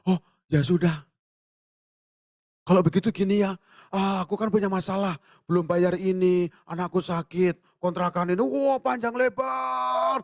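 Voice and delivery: rising, pouring out a list of troubles; complaining friend. Pretend. Friend on the phone unloading troubles to a helper, building complaint. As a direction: rattle off your problems, building up.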